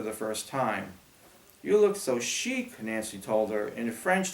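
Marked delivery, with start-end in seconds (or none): 1.6-2.8 put-on admiring girl voice. Nancy admiring friend's costume.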